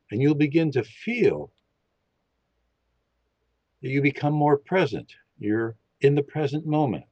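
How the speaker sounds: calm, steady guiding voice for a listening exercise; guided meditation. Acted. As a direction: lead them gently into listening. Leads a meditation.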